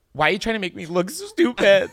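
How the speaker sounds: laughing through the question; giggling mock outrage. Real, not acted. Laughing mock accusation at cohost.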